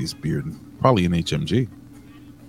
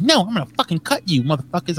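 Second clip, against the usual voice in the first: high, fast put-on menace; mock tough threat; 9 semitones higher, faster than usual. Imitating a friend turning on them, fast high mock threat. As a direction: play it like a tiny tough threatening. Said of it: "but she's like".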